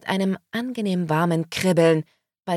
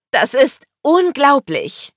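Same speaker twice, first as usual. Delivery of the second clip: high, loud, slow exclamation; overjoyed; 8 semitones higher, 8 dB louder, slower than usual. A narrator's reading. Woman learns of meet and greet, overjoyed. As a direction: stretch it out in thrilled disbelief. Overwhelmed by concert ticket gift.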